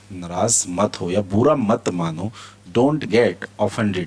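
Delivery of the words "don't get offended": each word stretched out; very slow model reading. Shown as a demonstration. Teacher reads the phrase very slowly to students. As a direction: stretch it out for learners. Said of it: "teacher models phrase".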